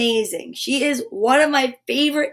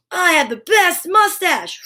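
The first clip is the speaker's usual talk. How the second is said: proud affirmation; 5 semitones higher, slower than usual. Shown as a demonstration. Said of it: "and say, "I am".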